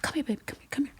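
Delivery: soft, high, hushed coaxing; tender beckoning. Retold or imitated. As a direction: imitate a mother figure gently calling someone over. Retold star beckons her over tenderly.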